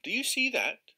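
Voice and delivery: can you believe it; amazed. Acted. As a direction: angler asking the keeper, amazed. Angler amazed at the same spot.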